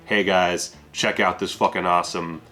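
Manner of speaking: light mock Mexican accent in Guillermo del Toro's voice; a hint of a Mexican accent, hamming up his intro. Summing up the director's intro in a light mock Mexican accent. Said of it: "my Guillermo del Toro accent".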